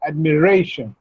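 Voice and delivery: "admiration" with the weight on "ra"; stress on RAY. Shown as a demonstration. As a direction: stress the third syllable of "admiration", ad-mi-RAY-shun. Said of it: "the stress should be on ray".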